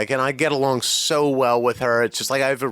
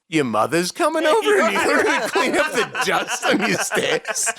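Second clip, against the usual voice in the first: put-on Jewish accent; 7 semitones higher than usual. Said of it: "in this, like, Jewish accent".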